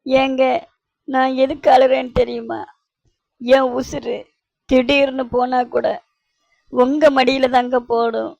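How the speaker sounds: weepy wife, melodramatic; acted crying. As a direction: declare your love through mock tears. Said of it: "ஏண்டி இன்னும் அழுற".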